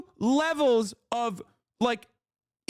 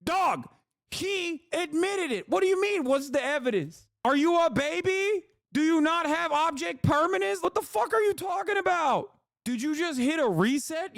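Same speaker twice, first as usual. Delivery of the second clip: incredulous rant; 5 semitones higher than usual. Real, not acted. Streamer shouting at viewers who still want evidence, exasperated. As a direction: yell it like you can't believe they need proof. Ranting at doubters again.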